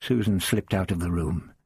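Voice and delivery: plain reading voice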